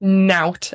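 nout said as "nowt", rhyming with out; Geordie nout. Shown as a demonstration. Teaching a podcast host Geordie slang, saying Nout slowly. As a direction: stretch the Geordie "Nout" out clearly. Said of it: "N O W T".

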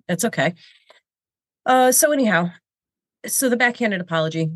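ordinary delivery

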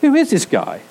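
high, exasperated outburst; who does he think he is; mock outraged squeal; indignant disbelief. Peter's indignant reaction.

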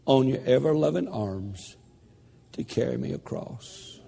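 a dying woman's prayer, voiced lightly, fading at the end; retold prayer. Preacher voicing the aunt's last prayer, gentle and fading. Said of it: "Listen to her prayer".

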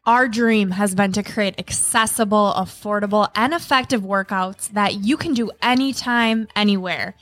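ad read. Acted. Ad read over music.

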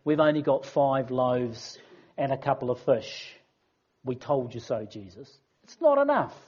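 mildly smug disciples pointing out the shortfall; told you so. Retold or imitated. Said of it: "in the disciples' voice when they say".

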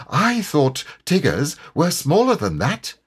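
high little character voice; high-pitched, uneasy piglet; timid piglet. A narrator's reading. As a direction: voice a small animal's wary doubt. Piglet wary of big Tigger.

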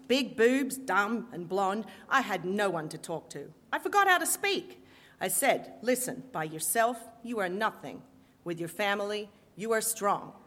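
put-on a mob matriarch laying down the law in a Brooklyn accent; strident Brooklyn accent. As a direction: Brooklyn accent, preaching family. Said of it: "in her strident Brooklyn accent".

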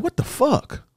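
squeaky, pitched far up; a startled, cracking yelp of shock; panicked disbelief. Retold or imitated. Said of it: "So I'm like".

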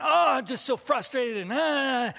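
re-enacted venting, voice lifted in pitch. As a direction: let out a mild venting groan of frustration. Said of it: "I'm, like, raising my voice".

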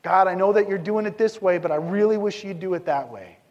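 mock frustrated prayer; complaining prayer. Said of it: "Disputing is an intellectual quarrel".

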